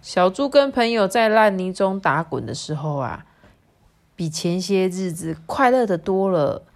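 picture-book ending with a big last word; storytelling to children. A narrator's reading. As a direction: read warmly to little ones, then burst out on the final word. Story narration, closing.

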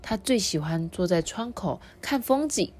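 lively picture-book reading; story narration for children. A narrator's reading. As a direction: tell it to small listeners with clear, lifted phrases.

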